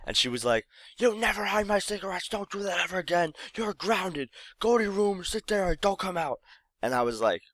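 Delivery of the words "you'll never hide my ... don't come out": imitating a stern mom, much higher; mom grounding him. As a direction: lay down the punishment as mom. Mom grounds her son.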